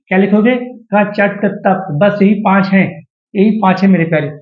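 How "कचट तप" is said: कचट तप very slow, syllable by syllable; slow dictation. Shown as a demonstration. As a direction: space out each sound of कचट तप for note-takers. Repeats the mnemonic for writing down.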